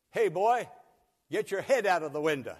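driver's shout. Retold or imitated. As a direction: bark the order across the bus. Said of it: "And the bus driver said".

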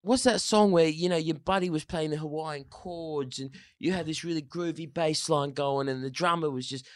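put-on high English accent; guitarist impression. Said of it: "he goes".

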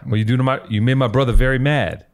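put-on hammy, unconvincing Boston accent; bad Boston accent. Host retrying the brother from The Town, failed Boston accent. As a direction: try Boston and mostly sound plain American. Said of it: "I got no Boston in me".

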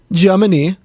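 "Germany" in a put-on German accent. Echoing a listener's country, "Germany" in a German accent. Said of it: "my German, uh, accent".

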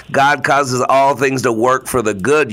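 "God causes all things to work for the good" stressed as one whole thought; emphatic unbroken verse. Shown as a demonstration. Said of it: "putting the wrong emphasis on the wrong syllable".

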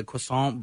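croissant as "kwah-sahn", slow; French-style croissant. Real, not acted. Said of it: "can you not say it like that".

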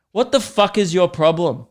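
playfully fake-confront the toddler; mock confrontation. Man imagining snapping at a staring toddler, mock angry. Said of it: "turn around and be like".

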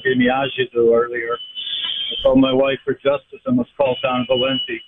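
caller on a distant speakerphone; thin, roomy phone audio from afar. Real, not acted. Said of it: "you got on some speakerphone or something?".

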